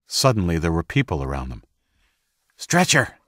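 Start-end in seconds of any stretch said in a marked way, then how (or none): 2.6-3.2 called out loud and much higher; calling out. Acted. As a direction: call for help across the scene. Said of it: "someone close by called".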